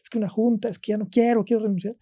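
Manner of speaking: voz aguda y quebrada de llanto imitado; imitando el llanto. Retold or imitated. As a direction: rogar entre lágrimas fingidas, más agudo. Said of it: "un mar de lágrimas". (nieto llorando al teléfono, llanto imitado)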